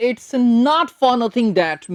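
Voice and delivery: very slow, word by word; slow dictation. Shown as a demonstration. Teacher dictates the phrase slowly for note-taking. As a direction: spell it out slowly for students to write. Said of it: "आराम से लिख लें".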